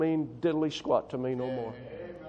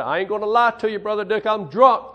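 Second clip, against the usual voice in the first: loud confession; 3 semitones higher, 8 dB louder than usual. Retold or imitated. Drunk student confesses, voiced.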